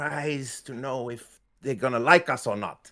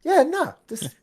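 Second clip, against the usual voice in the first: forced cheerful. Acted. Character fakes cheer, scared.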